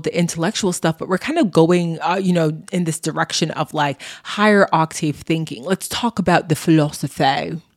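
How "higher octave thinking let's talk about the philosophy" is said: a vague put-on accent, only lightly done; a hint of a mystery foreign accent on Let's talk about the philosophy; half-hearted made-up accent; odd accent. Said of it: "I don't know what accent that was".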